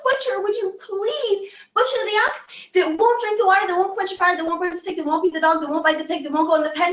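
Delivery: put-on high old woman voice asking a favor; old woman pleading. Old woman asks the dog to bite her pig.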